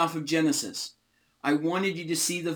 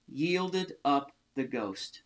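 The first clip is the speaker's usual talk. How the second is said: slow, softer, on the verge of tears; real emotion welling up, hushed and slow; choked up; 2 semitones lower, 5 dB quieter, slower than usual. Real, not acted. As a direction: let the words come slowly, holding back tears. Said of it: "I'm gonna start crying here".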